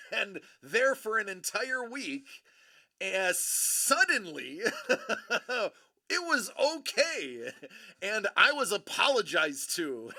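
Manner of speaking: loud, incredulous retelling broken by laughs; laughing in disbelief. Real, not acted. Storyteller recalls being apologized to, not arrested, laughing. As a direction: laugh through each punchline, hitting it hard.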